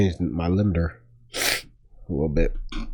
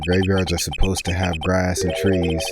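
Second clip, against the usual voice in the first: put-on cowboy accent; 2 semitones lower, slower than usual. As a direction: read it with a slight Western accent, pitched down. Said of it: "saying that with the accent now".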